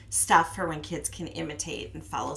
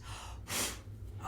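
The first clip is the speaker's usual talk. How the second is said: blowing exhale; 12 dB quieter than usual. Shown as a demonstration. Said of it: "blow the dandelion five times".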